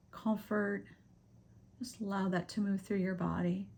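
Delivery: unhurried meditation guide with long pauses; guided meditation. Acted. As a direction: gently lead them through breathing, leaving space between phrases.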